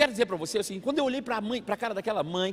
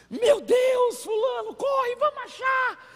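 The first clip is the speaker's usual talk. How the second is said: much higher, slower panicked shout; desperate panic; 3 dB louder, much slower than usual. Retold or imitated. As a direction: cry out like a frantic mother searching for her kids. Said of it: "E desesperado".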